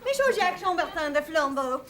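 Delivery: hammed-up French accent on the name; mock French. Host greeting a guest in mock French.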